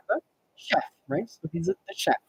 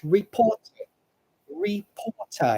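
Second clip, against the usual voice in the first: "reporter" in British English, no R, ri-PAW-tuh; British English "reporter", R dropped. Shown as a demonstration. Teacher demonstrating British English reporter. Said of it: "In British English".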